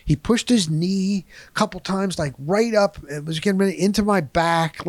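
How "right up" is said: normal talking voice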